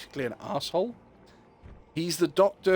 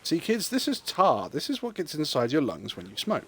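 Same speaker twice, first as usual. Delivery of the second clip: mock public health announcer. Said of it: "this is the Wolfie Public Health Service".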